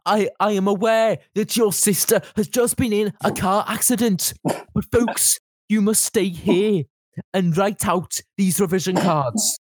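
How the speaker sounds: teacher's stern folksy address; Mr Liddell impression. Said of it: "That was just perfect".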